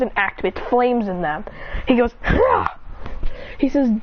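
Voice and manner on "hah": short, high-pitched "hah"; battle cry. Acted. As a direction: let out a quick attack yelp. Acted fighter activating flames.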